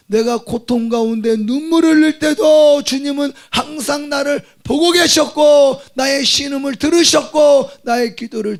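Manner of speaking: fervent Korean pulpit cry; full-force preaching. Acted. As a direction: build the sermon to a shout.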